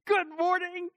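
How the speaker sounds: high, singing chirp of a morning person; over-cheery high-pitched hello; happy morning greeting. Retold or imitated. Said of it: "and I'm happy, and I'm very awake".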